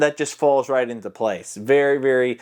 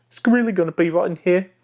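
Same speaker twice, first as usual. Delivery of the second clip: higher character voice, right at the front; Ragetti; 5 semitones higher than usual. Shown as a demonstration. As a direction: pitch it up and place it forward. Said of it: "it's a hushed tone".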